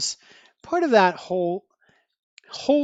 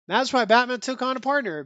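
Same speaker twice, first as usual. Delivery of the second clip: plain, amused restatement through a laugh; 5 semitones higher, faster than usual. Real, not acted. Reviewer repeating the line to viewers, amused. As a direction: toss it back at the audience, chuckling. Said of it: "there you have it, folks".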